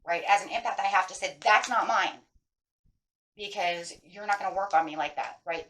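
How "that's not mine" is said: loud, firm "that's not mine"; big emphasis. Shown as a demonstration. Empath refusing someone else's bad mood, strongly emphatic. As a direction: hit each word of "that's not mine". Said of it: "put a real big emphasis on that".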